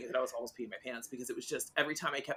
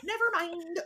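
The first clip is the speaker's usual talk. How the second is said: mock brush-off; 5 dB louder, slower than usual. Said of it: "So I was like".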